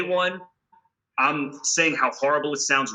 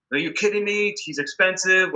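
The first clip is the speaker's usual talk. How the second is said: incredulous label boss; 5 semitones higher than usual. Retold or imitated. Label balks at the demand.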